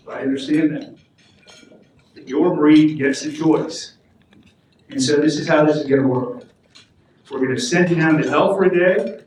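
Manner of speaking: a lightly voiced Saint Peter who sounds like a kindly aunt; Aunt Phyllis voice. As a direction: play Saint Peter, gently explaining the rules, barely changed from your own voice. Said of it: "Saint Peter probably does not sound like my Aunt Phyllis".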